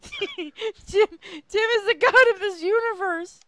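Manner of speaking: high, loud mock-epic announcement; loud, high mock-divine declaration; grand proclamation. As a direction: announce Tim like a booming herald. Proclaiming Tim a god.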